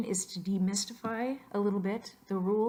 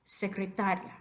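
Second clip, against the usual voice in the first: secretaria stressed on "ta"; penultimate stress. Shown as a demonstration. Teacher demonstrates the rule, secretaria stressed on "ta". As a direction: lean on the "ta" in secretaria. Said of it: "La penúltima sílaba".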